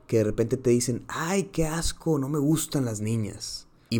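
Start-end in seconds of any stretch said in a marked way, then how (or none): 1.1-3.7 drawn-out, higher "ay, qué asco"; lightly hammed-up childish disgust; mock disgust. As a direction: imitate a grossed-out little boy. Imitates little boys disgusted by girls.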